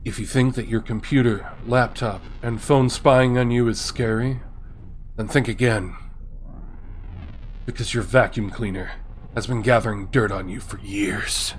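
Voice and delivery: lightly spooky storyteller voice; creepy voice. Acted. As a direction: tell it in a hint of a creepy whisper. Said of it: "I'll do it in a creepy voice".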